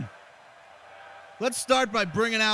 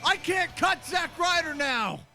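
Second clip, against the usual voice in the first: shocked shout; 10 semitones higher, slower than usual. Real, not acted. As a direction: yell No at the screen in real shock. Gamer shocked at Sheamus attack.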